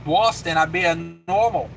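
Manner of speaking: hammed-up Boston accent on the vowels; lightly mimicked Boston talk. Shown as a demonstration. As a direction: put on a mock Boston accent. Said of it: "I'm talking with an accent".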